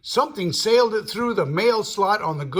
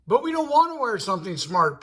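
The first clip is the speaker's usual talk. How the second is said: hurried mock protest; 4 semitones higher, faster than usual. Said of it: "protested Captain Brummel".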